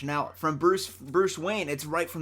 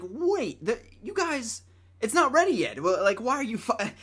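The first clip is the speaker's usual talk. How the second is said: panicked protest; 6 semitones higher than usual. Retold or imitated. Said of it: "I was like".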